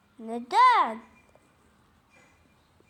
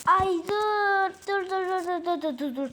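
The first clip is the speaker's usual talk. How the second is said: frantic stop; 4 semitones higher, 4 dB louder than usual. Real, not acted. Frantic stop while playing.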